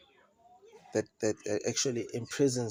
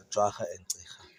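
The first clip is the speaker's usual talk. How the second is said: whisper. Real, not acted. Names trailing off into whisper.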